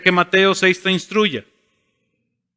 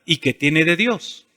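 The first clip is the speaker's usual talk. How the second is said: "¿Y qué tiene de Dios?" asked softer and slower; reflective question; 3 semitones lower, 5 dB quieter than usual. Shown as a demonstration. Pastor modeling the right question, soft and slow. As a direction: turn the question inward. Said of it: "siempre hazte esta pregunta".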